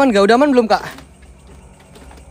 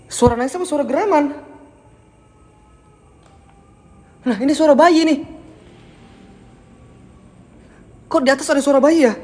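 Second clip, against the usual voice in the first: nervous; 3 semitones higher than usual. Real, not acted. Hears a baby crying upstairs.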